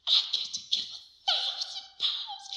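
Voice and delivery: very high, overjoyed half-laugh; tearful excitement. Retold or imitated. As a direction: squeal it through laughter, overwhelmed. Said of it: "I got tears in my eyes".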